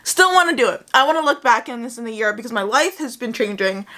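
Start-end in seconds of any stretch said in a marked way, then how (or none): 0.0-0.9 wired and jittery from coffee; caffeinated, bouncing energy; too much caffeine. Real, not acted. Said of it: "six cups of coffee today".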